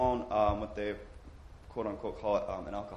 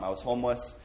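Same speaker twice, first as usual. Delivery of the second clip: more measured retake for the translator; unhurried, evenly voiced restatement; slowed down. Real, not acted. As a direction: say it slower, at an even volume. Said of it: "let me slow down".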